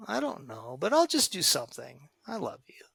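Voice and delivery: calm reassurance. Shown as a demonstration. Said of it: "grab a hold of yourself".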